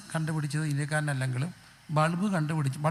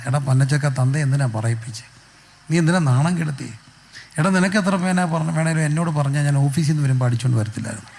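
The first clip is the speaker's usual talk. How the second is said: ശകാരിക്കുന്ന അച്ഛൻ; 5 dB louder than usual. Retold or imitated. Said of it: "മോനെ കണ്ടപ്പോൾ അപ്പം പറഞ്ഞെന്ന്".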